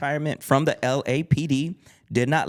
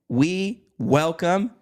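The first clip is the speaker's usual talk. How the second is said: announcer welcome; 6 semitones higher, 4 dB louder, slower than usual. Real, not acted. Host announces guest.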